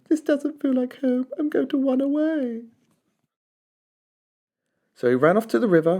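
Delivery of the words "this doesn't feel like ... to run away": cried. A narrator's reading. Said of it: "he cried".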